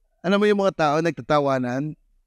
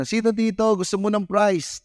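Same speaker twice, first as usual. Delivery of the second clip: higher, lively host voice; party host calling; 6 semitones higher than usual. Retold or imitated. Party host asking the kids, lively and higher.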